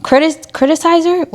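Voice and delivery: groping for the word criticizer, stumbling on "Critis-"; fumbled word. Shown as a demonstration. Vlogger hunting for the word, unsure. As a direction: sound out "criticizer" unsure, then give up on it. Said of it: "That's not a word".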